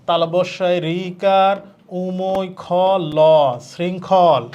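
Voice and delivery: slow, deliberate letter-by-letter spelling. Shown as a demonstration. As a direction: spell each part aloud like a model for students. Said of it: "এভাবে পড়বা".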